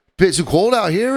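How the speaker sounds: bad put-on Boston accent. Retelling what a visiting lady said on an empty deck; terrible thick Boston accent. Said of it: "the lady comes up with a thick Boston accent".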